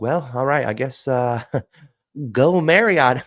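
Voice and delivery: high, slow awkward sign-off; laughing while aping the geek; mock awkward geek. Aping the caller's clumsy goodbye, a high awkward voice.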